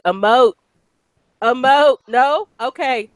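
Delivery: mock director's plea; urging an actor. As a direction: prod for emotion, then give up. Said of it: "you sit back and watch it and you're like".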